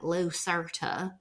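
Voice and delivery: slow drawn-out Southern Lucerta; thick Southern accent. Retold or imitated. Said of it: "she says it in a very thick accent".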